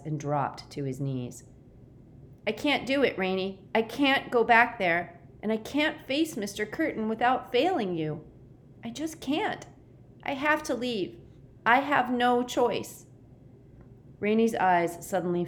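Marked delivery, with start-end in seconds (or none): 2.4-13.1 high, anguished plea building out of rising emotion; overwrought, high-voiced despair; emotional. A narrator's reading. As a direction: plead as if breaking down, pitch well up. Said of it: "the more emotion crept into his voice".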